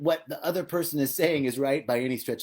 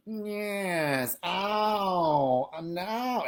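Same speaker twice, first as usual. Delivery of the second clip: imitating neighbor; 4 semitones higher, much slower than usual. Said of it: "it's like".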